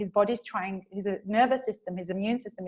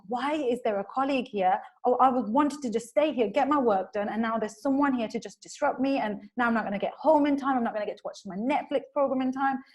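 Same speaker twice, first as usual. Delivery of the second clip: mildly exasperated, whiny grumble; acted irritation, slightly raised pitch; annoyed; 3 semitones higher than usual. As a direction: complain as if your evening is ruined. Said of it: "He feels annoyed because he's like".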